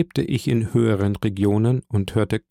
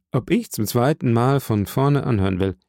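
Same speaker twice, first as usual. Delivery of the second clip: laughing. Acted. Laughing repeat of question.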